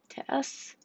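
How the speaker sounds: faint breathy whisper of a name; barely able to make a sound. Acted. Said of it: "her voice was barely a whisper".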